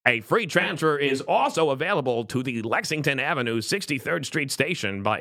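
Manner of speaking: subway announcer voice. Retold or imitated. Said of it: "you know".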